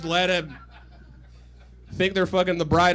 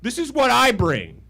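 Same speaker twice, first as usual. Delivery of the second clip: smug gloating; 3 dB louder than usual. Retold or imitated. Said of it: "I pause the movie and go".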